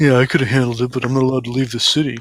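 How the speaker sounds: grumbled, muttered character voice. A game master voices Sal answering the players, grumbling under his breath. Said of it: "grumbles under his breath".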